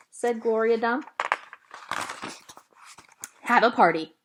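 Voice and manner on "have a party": bursting out loud with the idea; eager child shouting her plan; excited. A narrator's reading. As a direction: blurt it out, much louder. Opal excitedly proposes party.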